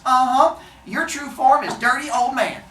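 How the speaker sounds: loud, high mock accusation; acted indignant outburst; in-your-face yelling. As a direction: throw the insult right at them. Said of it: "getting in his face and yelling".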